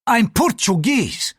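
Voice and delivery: high, slow, offended retort; indignant correction, stretched and high-pitched; flaring indignation. A narrator's reading. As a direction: rise to the bait. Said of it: "the priest flared".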